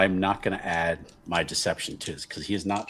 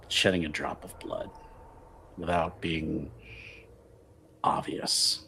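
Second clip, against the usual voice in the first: slow and low, long pauses, hushed final word; measured schemer; 11 semitones lower, 5 dB louder, slower than usual. Acted. Buccio promises change without bloodshed, slow and measured.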